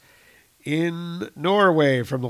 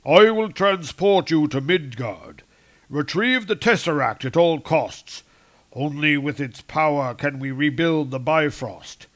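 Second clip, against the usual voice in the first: Odin's command; 6 dB louder than usual. Retold or imitated. Odin commands Thor.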